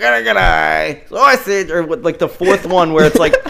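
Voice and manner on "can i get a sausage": put-on heavy Italian accent, higher and louder. Imitating own past pizza order in the most Italian accent. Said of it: "the most Italian one".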